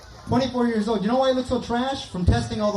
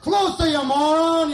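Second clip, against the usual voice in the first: slow, louder, exasperated insult; mock exasperation; 7 semitones higher, 3 dB louder, slower than usual. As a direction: drag out the frustration. Impatient kid on walkie-talkie.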